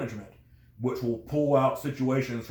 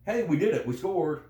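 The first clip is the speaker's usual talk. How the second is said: higher-pitched imitation of a team cheering itself; mock celebration; 5 semitones higher than usual. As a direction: lightly act out a triumphant cheer. Voices a team celebrating its success.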